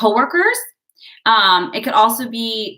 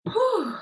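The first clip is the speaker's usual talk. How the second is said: winded whew; 12 semitones higher, 6 dB quieter than usual. Real, not acted. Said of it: "I am winded".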